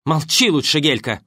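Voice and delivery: wife scolds the actress, loud; angry rebuke. Acted. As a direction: cut her off angrily. Quarrel continues.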